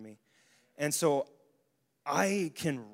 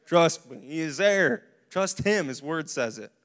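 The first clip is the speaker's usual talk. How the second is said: louder, insistent promise; emphatic assurance; 6 dB louder than usual. Real, not acted. Preacher assuring congregation God is there, loud and firm. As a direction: press it home.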